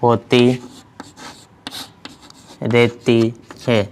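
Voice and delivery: halting, a word or two at a time; slow dictation. Real, not acted. Teacher dictating the rule to students, slow dictation. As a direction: dictate with long gaps for writing. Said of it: "इसमें हम लिखेंगे".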